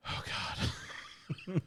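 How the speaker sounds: hushed, voiceless exhale of words; whispered aside. Retold or imitated. Rider as the door closes, whispering in dismay. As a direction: whisper it under your breath.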